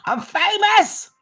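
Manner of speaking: squealed high, slowed with a laugh; laughing, hammed-up joy at being famous; mock excited. Laughing, hammed-up boast to viewers about four likes. Mock celebrating own tiny audience.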